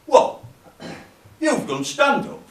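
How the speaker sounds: high, slow incredulous question; astonished. Acted. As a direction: question it in sheer disbelief. Workmate astonished by the claim.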